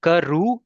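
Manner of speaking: karu stretched slowly, ending on an open oo; slow karu, long open final vowel; no N sound. Shown as a demonstration. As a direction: draw out karu with no n at the end. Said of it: "Don't emphasize on that sound".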